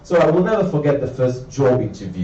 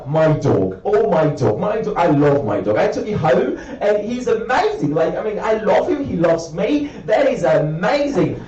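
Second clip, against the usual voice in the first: gushing dog owner; 4 semitones higher than usual. Retold or imitated.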